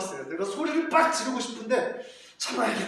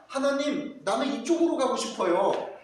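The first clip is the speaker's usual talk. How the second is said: put-on pleading child; 5 semitones higher, 3 dB louder than usual.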